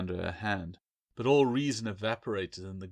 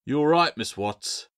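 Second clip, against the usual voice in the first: concerned query; 6 semitones higher, 7 dB louder than usual. A narrator's reading. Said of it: "Bill queried".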